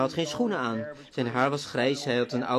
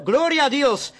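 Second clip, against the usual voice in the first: high, loud cry of praise; retold jubilant yell, high and loud; joyful shout; 10 semitones higher, 8 dB louder, slower than usual. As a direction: shout it out to God. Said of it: "Hij schreeuwde".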